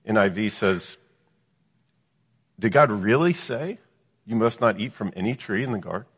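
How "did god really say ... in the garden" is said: incredulous question, lifting "Did God really say"; doubting emphasis. Acted. Devil questioning the woman about God's command, doubting emphasis. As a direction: cast doubt with a rising stress on "really say". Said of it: "starting to get some of the emphasis".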